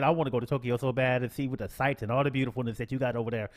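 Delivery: ordinary talk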